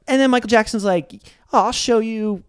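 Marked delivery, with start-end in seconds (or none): 1.5-2.4 higher, tentative character voice; half-hearted try at the singer's voice; attempted singer impression. Singer answering the bad guy's challenge, tentative higher voice. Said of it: "I'm not gonna try doing one".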